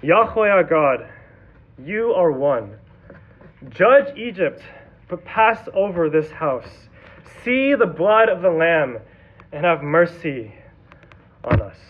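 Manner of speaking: slow, earnest prayer at the door; a father's slow solemn prayer; muttered prayer. Acted. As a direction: pray it slowly over the doorframe. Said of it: "muttering a prayer".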